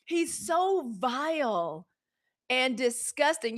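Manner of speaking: slow, disgusted; disgusted drawl. Real, not acted. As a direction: drag out the disgust. Disgust drawn out slowly.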